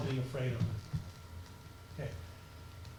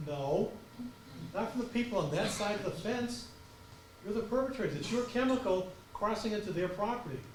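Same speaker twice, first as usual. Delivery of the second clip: stern rebuke; 5 semitones higher than usual. Retold or imitated. Lecturing the company.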